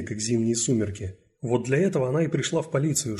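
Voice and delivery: usual speaking voice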